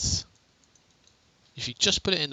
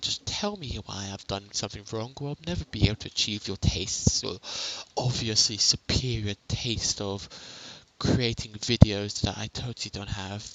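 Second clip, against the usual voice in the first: understated sarcasm; dry, mildly sarcastic mock humility. Real, not acted. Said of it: "Sorry about the sarcasm".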